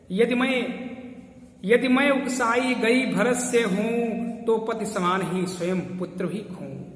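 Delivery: slow, measured verse recital; poem recitation. Acted. Recites Kaikeyi's oath verse. (धीमा, गंभीर काव्य पाठ)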